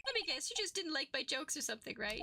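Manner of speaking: high-pitched, wounded protest; whiny rant. Acted. Insulted witness protesting to the judge, high whiny rant. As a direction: plead like a picked-on witness in a high voice. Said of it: "he's going on a rant".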